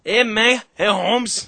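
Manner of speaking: high, loud challenge; mock tough fighter. Angry fighter confronts the drunk who took his seat, mock threat. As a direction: call out like a fighter picking a fight.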